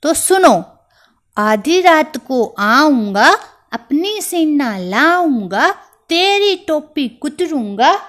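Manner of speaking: high, loud mouse threat, rising at each line end; a furious little mouse vowing revenge; angry threat. Acted.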